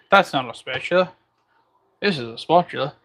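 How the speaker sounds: put-on shaky try at an Australian accent; half-successful Australian movie-quote impression; attempted Australian accent. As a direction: have a go at mock Australian. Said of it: "hard to say in an Australian accent".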